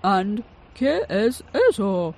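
inventor's voice. A narrator's reading. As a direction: ask with wide-eyed wonder.

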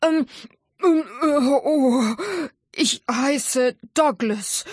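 a shaken dragon blurting his name; babbling dragon. Acted. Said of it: "babbled der Drache".

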